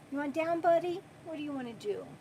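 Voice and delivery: hushed and gentle, to the little buddy; soft pet talk. Real, not acted. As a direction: coax the pet quietly, close to the mic. Talking softly to her pet.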